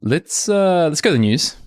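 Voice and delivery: bright, high announcer-style lead-in; excited segue. Real, not acted. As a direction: kick off the news segment with a lift. Segue to news section.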